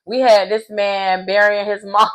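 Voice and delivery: breaking into laughter on the last word; amused disbelief. Retold or imitated. Retelling a player's confessional about burying mom, laughing. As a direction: let a laugh take over the end.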